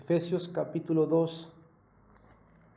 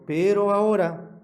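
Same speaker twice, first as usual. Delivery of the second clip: a sudden louder ahora, pitch lifting; stressed pero ahora; 2 semitones higher, 6 dB louder than usual. Real, not acted. Preacher to congregation, punching ahora louder. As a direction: land hard on ahora for the congregation.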